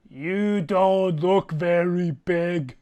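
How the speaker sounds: slow, lightly voiced sneering giant. Giant leaning in to taunt Throck, slow mild sneer. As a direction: lean in and size him up, slow. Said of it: "lean into you, Throck, and go".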